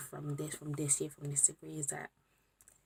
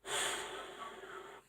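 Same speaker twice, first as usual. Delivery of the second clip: long sigh; 7 dB quieter than usual. Real, not acted. Overwhelmed after finishing degree.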